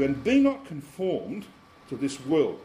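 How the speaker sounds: slow, deliberate scripture quote; solemn verse read aloud. Shown as a demonstration. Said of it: "he says in verse two".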